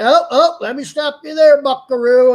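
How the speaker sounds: hammed-up Southern cowboy cutting him off; cowboy Southern accent. Host imitating the Southern caller interrupting him, in a hammed-up Southern accent. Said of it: "He sounded like some cowboy dude".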